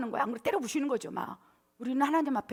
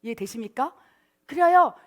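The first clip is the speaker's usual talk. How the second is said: ordinary talk, nothing marked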